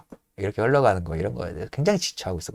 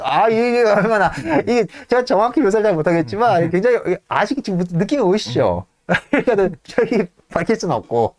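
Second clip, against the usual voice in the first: overwhelmed fan raving; excited gushing; 10 semitones higher than usual. Real, not acted. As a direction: rave about it, almost squealing. Host gushing over the scene.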